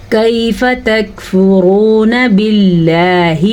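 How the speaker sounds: slow, measured Quranic recitation; tajweed recitation. Shown as a demonstration. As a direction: recite with long, held vowels. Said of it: "کھینچ کے پڑھنا ہے".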